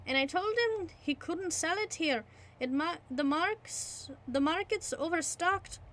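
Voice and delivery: high, amused innkeeper. Acted. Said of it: "said the landlord".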